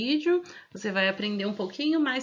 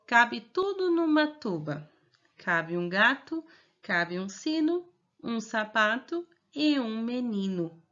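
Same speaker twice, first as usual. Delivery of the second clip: reading aloud. Shown as a demonstration. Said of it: "eu vou ler novamente".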